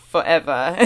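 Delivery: British accent word broken by a laugh; giggling through a mock drill word. Shown as a demonstration. Vlogger cracking up mid-drill, laughing British accent. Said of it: "I'd rather not be saying".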